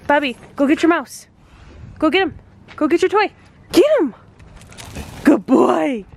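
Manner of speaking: rising, eager fetch commands; talking to a dog. Real, not acted.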